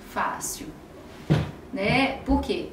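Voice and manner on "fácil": whispered. Retold or imitated. Shy son's reluctant answer.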